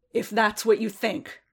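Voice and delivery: angry. Acted. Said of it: "Boba said angrily".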